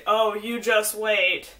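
slow drawn-out oh you just wait; mock knowing warning. People who warn her, slow mock ominous tone. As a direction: imitate the ominous warning, slowly. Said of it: "instead of telling me".

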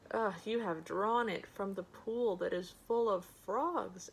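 mildly disgusted complaint. Acted. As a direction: turn it away with a touch of distaste. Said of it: "he turned away in disgust".

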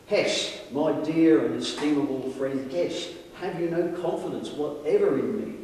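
put-on reading an old account aloud, measured and dramatic; formal storytelling with lightly acted dialogue; story narration. A narrator's reading. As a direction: read it out like an old-fashioned tale.

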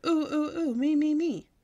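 eager high squeal, loud; hollered real loud. A narrator's reading. Girl begs teacher to be called on, loud eager squeal. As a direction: squeal to get picked first. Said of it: "I'm not supposed to go".

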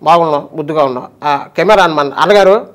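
lightly voiced fond greetings; a hint of the master greeting everyone; affectionate rambling impression; imitating Rakesh Master. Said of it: "అది Rakesh master గారిది".

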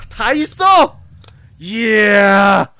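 high, loud amazed exclaiming. Real, not acted. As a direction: gush over the full collection. Amazed by viewer's collection.

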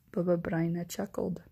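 usual speaking voice

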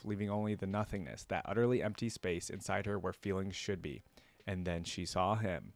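measured storybook reading; story narration. A narrator's reading. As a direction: narrate a dark tale with care. Reads the story aloud.

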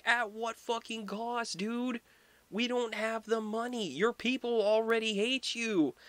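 very high-pitched exasperated pleading; mock outrage. Courtiers warning the king about money, mock exasperation.

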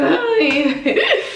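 high, loud-ish squeaked greeting with a laugh; retold awkward hi. Storyteller recalling her escape from the car, awkward high squeak.

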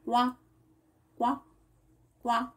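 gentle quá quá quá; quacking. Acted. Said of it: "uma voz que fazia assim".

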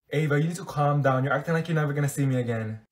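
usual speaking voice

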